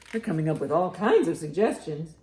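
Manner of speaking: usual speaking voice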